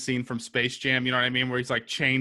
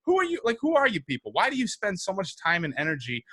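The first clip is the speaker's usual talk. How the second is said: high incredulous who are you, then a long disgusted rant; mock the canvassers with exasperated disbelief; 3 semitones higher than usual. Comic rant at people who canvass for billionaires, exasperated. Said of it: "I'm like".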